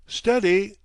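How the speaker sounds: loud, high sharp command; barked order. A narrator's reading. Captain barking an order at the helmsman. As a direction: bark it at the helmsman. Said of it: "barking sharp orders".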